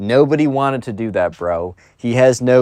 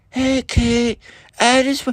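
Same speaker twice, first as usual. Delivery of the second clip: loud, slow stage whisper; 12 semitones higher than usual. Retelling a spoiled kid talking to a classmate during class: loud whisper. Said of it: "kept whispering, like, really loud".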